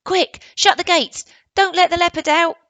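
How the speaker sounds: high, loud urgent command; urgent calling. Acted. Indian boy orders the gates shut, high and loud. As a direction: call it out in a hurry. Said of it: "he heard the Indian say".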